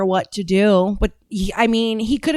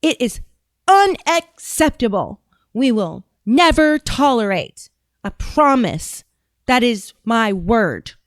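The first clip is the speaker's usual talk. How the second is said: slow, over-deliberate official cadence; mock solemn vow, each word spaced out; Pam Bondi; slower than usual. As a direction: drag it out as if addressing small children. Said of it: "This is how she talks".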